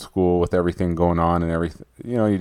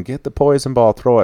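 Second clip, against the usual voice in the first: higher mock yell from a teammate; lightly voiced, higher-pitched urging; retold yelling, only half raised; mildly imitated team yelling; 6 semitones higher than usual. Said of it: "everybody's yelling".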